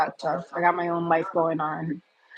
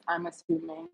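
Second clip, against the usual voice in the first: whispered aside; 10 semitones higher, 8 dB quieter than usual. Real, not acted. Teasing aside to a commenter.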